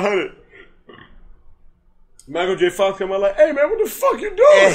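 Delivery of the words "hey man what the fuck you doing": high, loud mock shout; retold angry outburst. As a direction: shout it like an outraged Michael J. Fox retold. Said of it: "Or more like".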